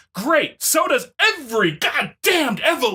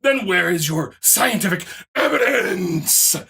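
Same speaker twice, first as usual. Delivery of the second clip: mocking the opponent. Reading the opponent's comment to him in a mocking whine. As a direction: parody the commenter's smug questioning.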